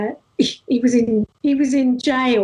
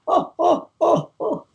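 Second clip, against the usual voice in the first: higher-pitched mock "oh, oh, oh"; imitated cries of "oh"; 4 semitones higher than usual. Third man reacting to the bottle blow, imitated cries. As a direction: mimic a shocked onlooker's repeated "oh".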